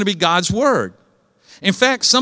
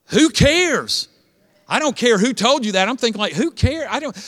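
higher, exasperated scoff; dismissive who cares; 4 semitones higher than usual. Retold or imitated. Pastor recalling his reaction to pronoun introductions, dismissive. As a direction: brush it off, exasperated. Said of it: "I was sitting there thinking".

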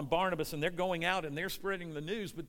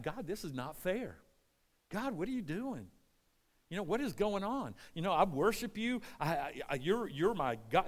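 Job crying out; 3 semitones higher than usual. Acted. Job questioning God over his suffering, in aggrieved protest. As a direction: plead with God in mild mock protest. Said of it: "Job could have easily cried out".

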